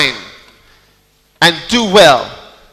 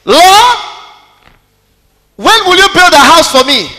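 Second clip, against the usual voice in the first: mock whiny cry; 8 semitones higher, 5 dB louder than usual. Mocking selfish prayers.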